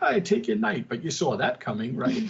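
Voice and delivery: high, smug gloat over the board; smug chess taunt, pitched high. Retold or imitated. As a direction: needle him as you take the piece.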